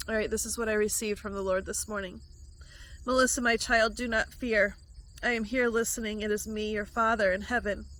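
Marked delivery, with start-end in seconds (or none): 3.1-7.9 gentle, measured voice of God speaking; prophecy read to the viewer; prophetic word. Acted. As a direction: speak as the Father reassuring a child. Delivers a received word.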